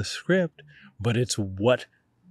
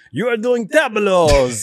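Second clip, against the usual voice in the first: mock teacher yell, higher and louder; retold yell; 10 semitones higher, 7 dB louder, slower than usual. Acting teacher yelling orders at his students. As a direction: bark it like a demanding acting teacher. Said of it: "he would just yell at things at us".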